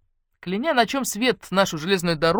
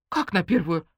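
gasp. Acted. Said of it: "ахнула Ленка".

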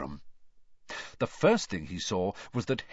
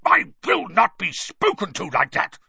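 loud, high, raging uncle; trembling with rage; 9 semitones higher, 6 dB louder than usual. Acted. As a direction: shake with barely held fury. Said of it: "trembling with rage".

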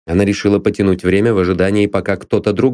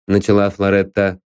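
plain reading voice

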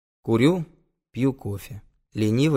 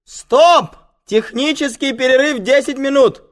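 loud high-pitched yell to halt everyone; full-voice shouted announcement; shouting; 12 dB louder, slower than usual. Acted. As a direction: call the break across the whole set. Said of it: "видит меня и кричит".

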